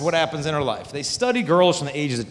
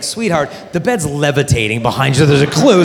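sarcastic; 7 dB louder than usual. Retold or imitated. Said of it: "It's like".

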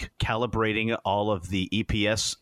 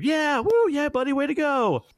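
high, loud whooping cheer; hammed-up crowd cheer; mock cheering; 5 dB louder than usual. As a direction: cheer him on like a crowd of engineers. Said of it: "all the engineers are cheering him".

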